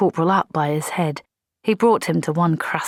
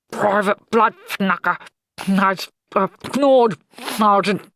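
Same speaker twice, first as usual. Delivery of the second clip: accusing; 4 semitones higher, 3 dB louder, slower than usual. Acted. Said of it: "he said accusingly".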